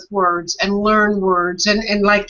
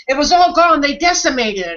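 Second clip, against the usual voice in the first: mock dramatic lament, higher and louder; quoting a careless speaker; 4 semitones higher, 3 dB louder than usual. Mocking a careless speaker who misuses decimate, mock dramatic. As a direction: ham up someone overstating a loss. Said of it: "if someone said".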